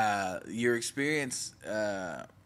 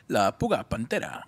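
radio voice. Pretend. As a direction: say it like a radio host. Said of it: "radio voice".

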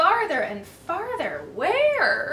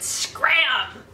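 shout; 3 dB louder than usual. Acted. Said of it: "the big dog just shouted".

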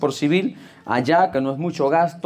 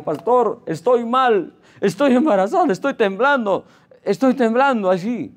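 high, pleading woman in distress; imitated tearful distress; 8 semitones higher than usual. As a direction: mimic a panicked, tearful caller. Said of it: "llorándome". (imitando una súplica angustiada)

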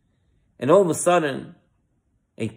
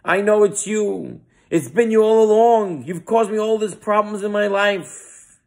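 higher, louder wild accusation; screaming louder; 5 semitones higher than usual. Retold or imitated. Accuser screaming louder at the speaker on stage, furious. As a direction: hurl it at her, getting wilder. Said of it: "started to scream louder".

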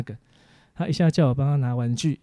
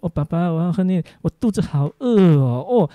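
a lightly voiced little girl drawing out her hunger; whiny toddler plea; 4 semitones higher, 5 dB louder than usual. Retelling his daughter begging for milk, mock whiny toddler voice. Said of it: "她还做个动作".

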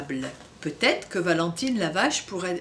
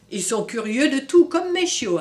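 dog bark; 2 semitones higher, 6 dB louder than usual. Acted. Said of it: "aboya Minouche".

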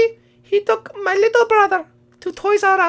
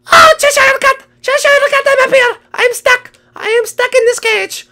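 calling for help; 5 semitones higher, 4 dB louder than usual. Pretend. Trapped character calls for help.

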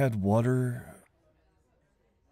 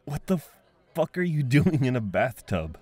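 sharp, higher startled yell, stretched out; 4 semitones higher than usual. Acted. Finding a stranger in the bathtub, a startled yell. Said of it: "I'm sorry I yelled".

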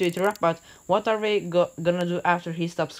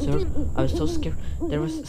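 scared character voice; 11 semitones higher than usual. Acted.

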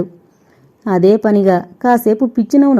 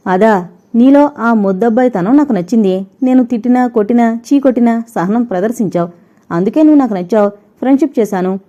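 mocking disdain; 2 semitones higher than usual. Heroine mocks his innocence.

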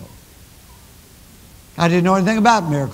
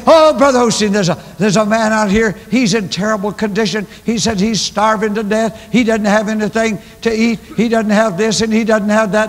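imitating excitement; 4 semitones higher, 3 dB louder than usual. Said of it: "you're getting all excited".

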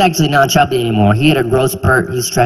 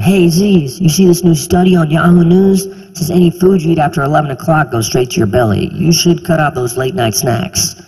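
gym know-it-all. Retold or imitated. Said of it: "They would say things like".

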